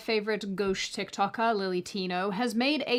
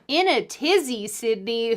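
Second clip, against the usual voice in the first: imitating mum; 5 dB louder than usual. Host catching herself sounding like her mum, mock mum voice. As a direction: do a lightly voiced fussy mother. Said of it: "Who am I right now? My mum?".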